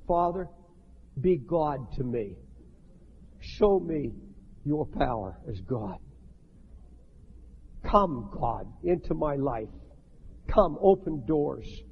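low, slow, earnest plea to God; pleading prayer. Shown as a demonstration. Preacher models a surrender prayer, low earnest plea. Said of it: "Then you say".

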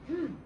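short huffed "hmm"; mad breath. A narrator's reading. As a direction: huff crossly through the nose. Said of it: "did a mad breath".

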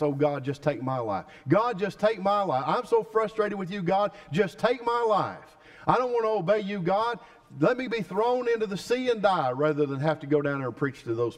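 preacher acting Jonah refusing to preach; frustrated Jonah. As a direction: whine at God to end it all. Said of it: "Jonah has said".

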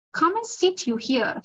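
a mild call to the guest from the father, offering his chair; cried out. Acted. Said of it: "he cried".

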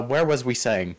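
deliberately dumb grammar; talking stupid. Pretend. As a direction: play it dim on purpose. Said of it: "I have to talk stupid".

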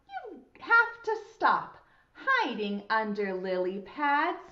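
put-on rhythmic children's rhyme with pauses; poem recitation. Shown as a demonstration. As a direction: recite it bouncily for preschoolers to follow. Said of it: "the poem goes like this".

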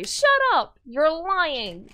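loud, high shrieked denial; furious scream. Acted. Girl screaming at the hunter who shot her father, furious. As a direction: scream it at him in rage.

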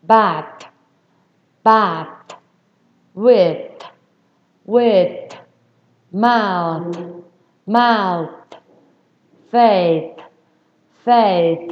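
each word said apart, ending on TH; emphatic final TH drill. Shown as a demonstration. Teacher urging students to read aloud, emphatic TH. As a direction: read out "Bath, with, mouth, faith" firmly with tongue-bitten TH. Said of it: "bạn đọc to lên nha".

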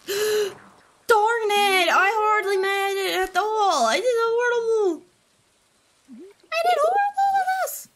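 high, loud fake wail; hammed-up crying over a bad score; mock crying. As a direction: whine it like a wounded child. Failed minigame, cry heard.

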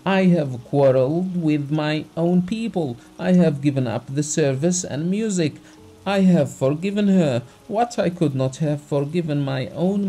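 tearful heartfelt plea. Acted. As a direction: pour out the heart, hurt and wronged. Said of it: "With tears in his eyes, trembling all over".

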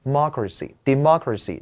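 "democracy，democracy" repeated with MOC stressed; stress on second syllable. Shown as a demonstration. Teacher drills the stress position in democracy, second syllable stressed. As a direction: hit MOC each time in "democracy，democracy". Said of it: "关键是大家看到这个重音的位置".

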